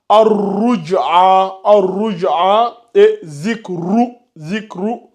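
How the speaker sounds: slow ar-ruj'a with a heavy, full r; emphatic ra. Shown as a demonstration. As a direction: zikru with a thick ra under dhamma. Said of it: "c'est emphatique".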